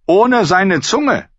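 high, slow, sneering drawl; mocking knight. Knight mocks the singer before the lords, high and slow. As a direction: draw it out in scorn.

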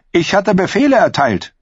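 high, loud and sharp; queen rebuking her knight, loud and high; furious queen. Acted. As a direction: spit it out in cold fury. Queen furious at escaped prisoner.

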